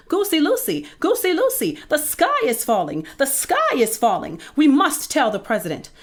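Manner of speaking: high-pitched, punchy alarm; excited yelling. A narrator's reading. Two birds alerting their goose friend, high excited yelling. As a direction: yell it in a squawking panic. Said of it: "ran to their friend Goosey Lucy and yelled".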